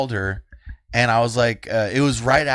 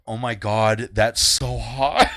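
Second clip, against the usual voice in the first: laughing swoon; slower than usual. Retold or imitated. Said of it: "I'm just like".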